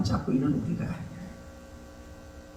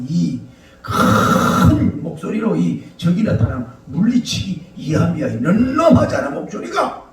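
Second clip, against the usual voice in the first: boastful rooster. Acted. Rooster father boasting to his chick about his big voice, lightly acted swagger. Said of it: "남자다운 호방한 그 장닭의 모습을 막 자랑을".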